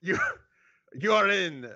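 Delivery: put-on theatrical French accent; snooty French accent. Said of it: "I should have done a French accent".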